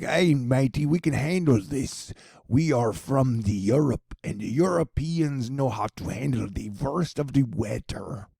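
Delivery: hammed-up generic European accent; mock European tourist accent; fake European accent. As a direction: put on a bad European accent, stretching the vowels. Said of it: "Was that a good European accent".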